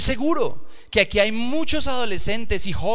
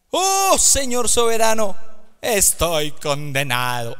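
frightened exclaim; 3 semitones higher, 5 dB louder, slower than usual. Acted. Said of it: "exclamó".

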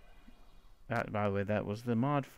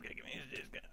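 under breath; 2 semitones lower, 17 dB quieter, much faster than usual. Real, not acted.

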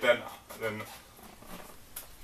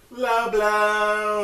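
laughing; 9 semitones higher than usual. Real, not acted. Friend laughing at a low blow.

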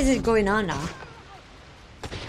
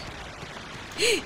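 soft sharp intake of breath; startled gasp; 10 semitones higher, 9 dB quieter than usual. Real, not acted. Player startled by the game, soft gasp. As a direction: catch your breath in surprise.

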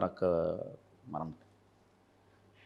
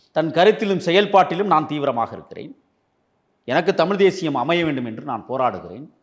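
louder and higher, defiant challenge; defiant raised voice; 4 semitones higher, 5 dB louder than usual. Real, not acted. Politician to the judge's remark, defiant raised voice. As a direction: throw the question back hard.

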